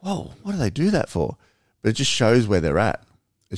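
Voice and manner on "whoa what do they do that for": mock bewilderment. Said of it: "And I'm like".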